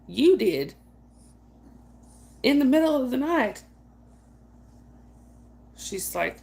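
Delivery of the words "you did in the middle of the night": teasing accusation. Retold or imitated. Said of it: "And I was like".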